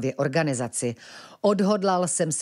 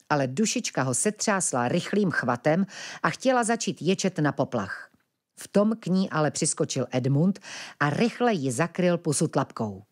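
usual speaking voice

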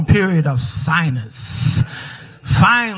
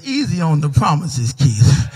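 lightly voiced God; 4 semitones lower than usual. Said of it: "God says".

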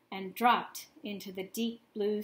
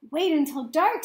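raised, eager voice; can't wait, louder; excited; 5 semitones higher, 6 dB louder than usual. A narrator's reading. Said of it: "Stella Luna said excitedly".

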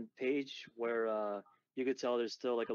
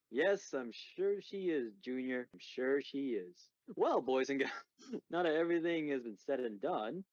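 a touch of a storybook father; lightly voiced comic-book dad; 2 semitones higher than usual. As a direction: lightly play a dad addressing the kids.

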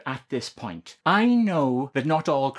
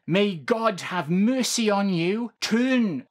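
preacher voice; 5 semitones higher, much slower than usual. Acted. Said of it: "I'm doing my best preacher voice here".

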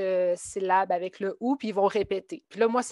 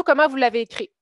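raised, higher teacher question; asking the class; 3 semitones higher, 5 dB louder, faster than usual. Retold or imitated. Teacher asking students how they wrote it, raised. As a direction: call the question out to the room.

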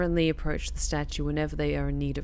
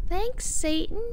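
sarcastic; slower than usual. Real, not acted. Sarcastic thanks to the game.

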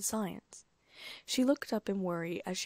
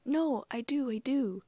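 put-on higher, eager little girl's "no, I do"; squealing protest; 6 semitones higher, 5 dB louder, slower than usual. Girl reassures her father she is still his Ladybug, squealing. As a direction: blurt it out in a rush, delighted. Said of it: "She squealed".

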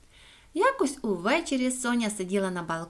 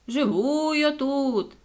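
high, very drawn-out reply; echo calling back; 4 semitones higher, much slower than usual. A narrator's reading. The echo answers Соня from below, slow calling voice. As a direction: answer slowly as if from down a hole. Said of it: "відповіла луна".

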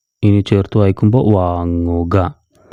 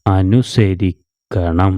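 slow joined reading; much slower than usual. Shown as a demonstration. Teacher answers her own question slowly for pupils. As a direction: draw the joined word out slowly. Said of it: "ചേർത്ത് വായിക്കുമ്പോൾ എങ്ങനെ വായിക്കണം?".

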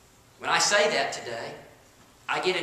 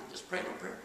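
mock dismissive; 11 dB quieter, faster than usual. Mocking the easy prayer.

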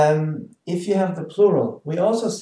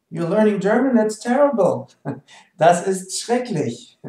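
higher, louder hammed-up horror; mock dismay; 4 semitones higher, 4 dB louder than usual. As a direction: react in playful dismay. Acted reaction, that's terrible.

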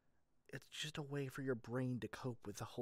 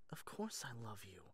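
soft whispered confession, softer; 2 semitones lower, 5 dB quieter than usual. Acted. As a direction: whisper it close, like a secret. Tender confession to partner.

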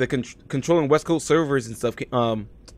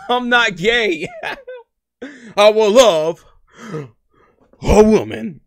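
laughing through it; 11 semitones higher, 9 dB louder, slower than usual. Retold or imitated. Retelling quote while cracking up.

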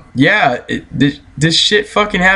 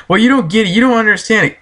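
higher-pitched imitation of her excuse; mock pleading, pitched up; mimicked protest; 6 semitones higher, faster than usual. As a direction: parrot her protest in a raised voice. Mimics girl's excuse in retold quarrel.

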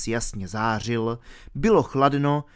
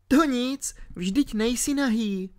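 put-on higher girl, reassuring; comforting; 12 semitones higher than usual. A narrator's reading. Alenka comforting R about being naked, reassuring. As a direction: gently reassure a friend. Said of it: "utěšovala ho Alenka".

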